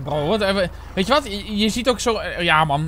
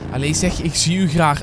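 put-on Flemish accent; 3 semitones lower than usual. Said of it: "Als je dat vergelijkt met Vlaams".

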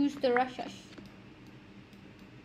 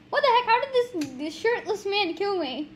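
shocked outburst; 4 semitones higher than usual. Real, not acted. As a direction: blurt it out shocked. Killed by shirtless man.

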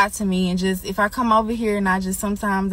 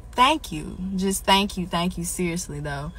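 holding back tears; 3 semitones lower, 4 dB quieter than usual. Real, not acted. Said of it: "I said I wasn't gonna get emotional".

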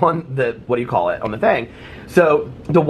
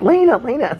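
high repeated call, a touch louder; mock calling out; 12 semitones higher, 3 dB louder than usual. Girl calling her friend across the pool, high call. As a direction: call the name twice to get her attention. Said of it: "So she's like".

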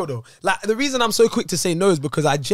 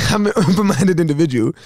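laughing; 5 dB louder than usual. Real, not acted. Repeated with a laugh.

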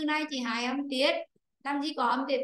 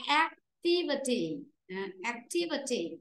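"activity" stressed on TI, ac-TI-vi-ty; stress on second syllable. Shown as a demonstration. Teacher shows the class, "activity" stressed on the second syllable. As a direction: put the weight on "ti" in "activity". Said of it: "Nó ra rơi vào chữ T".

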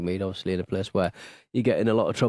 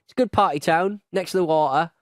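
excited; 5 semitones higher than usual. Real, not acted. Enthusing about Newcastle.

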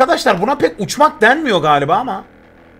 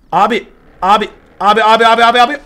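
alarmed calling out; 2 semitones higher, 6 dB louder, faster than usual. Real, not acted.

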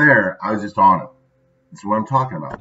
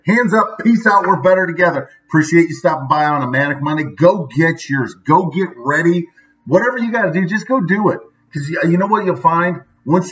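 much higher, pumped-up send-off; hyped sign-off; 6 semitones higher than usual. Real, not acted. Vlogger signing off to his viewers, pumped and upbeat. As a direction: sign off like a hype man rallying the crowd.

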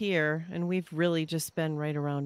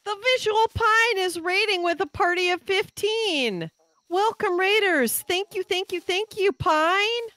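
very high, loud squeal of thanks; gushing, loud and high welcome; excited raid shout-out; 13 semitones higher, 6 dB louder than usual. Real, not acted. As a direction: announce it in a thrilled high-pitched voice. Announcing and thanking an incoming raid.

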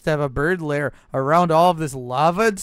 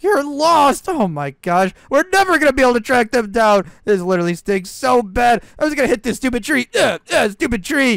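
frustrated, fast, high rant; angry; 6 semitones higher than usual. Acted. Goku bird raging at his lost guide, high fast rant. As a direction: storm about in a fit of temper. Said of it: "calm down, Goku bird ... so angry".

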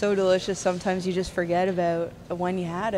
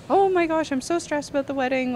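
imitating a flustered bride, high-pitched; stressed bride; 8 semitones higher than usual. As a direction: pitch jumps up for her mock-stressed plea. Retold stressed bride's excuse on phone.

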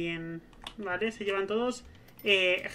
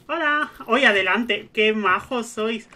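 gushing welcome; 6 dB louder, slower than usual. Real, not acted. Welcoming the neighbours warmly.

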